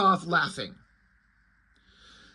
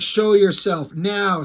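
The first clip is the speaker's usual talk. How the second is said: mysterious guy; 5 dB louder, slower than usual. Retold or imitated. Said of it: "here's mysterious guy".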